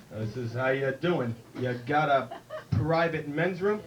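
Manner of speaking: slow, low cowboy voice; a hint of the Duke, taking his time; lightly voiced John Wayne drawl. John Wayne asking the bartender, slow and low.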